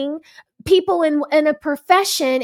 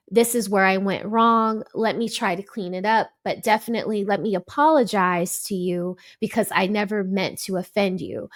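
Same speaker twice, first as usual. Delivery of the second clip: lower, gently conceding voice; model apology; 4 semitones lower, 3 dB quieter than usual. Acted. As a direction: act out owning the mistake calmly. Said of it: "recalibrated yourself".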